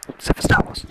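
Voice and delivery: forceful voiceless whisper; emphatic whispered repeat of an aside; loud stage whisper. Real, not acted. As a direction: whisper it hard and pointedly.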